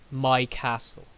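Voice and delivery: "My" leaned on, then "castle"; stress on MY. Shown as a demonstration. Teacher quoting Lady Macbeth to show ownership, stress on "My". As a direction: put the weight on the word "My". Stresses the key possessive word.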